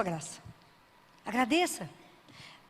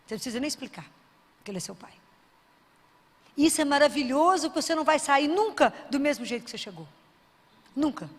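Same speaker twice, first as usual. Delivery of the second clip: ordinary talk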